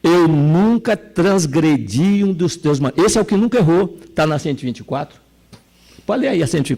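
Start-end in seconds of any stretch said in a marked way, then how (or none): 0.0-3.1 put-on slow, indignant older brother; the older brother protests to his father, slow and indignant. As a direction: drag out the protest in offence. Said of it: "ele indignado diz".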